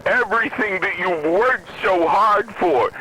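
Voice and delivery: mock pleading. Mimicking Fox News begging Trump, hammed-up plea. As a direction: plead like a panicked pundit. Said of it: "was begging and pleading".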